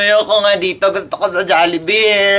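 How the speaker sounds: mock crying whine; whining child. Child pestering mother in church for Jollibee, whining. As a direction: wail the request like a small child.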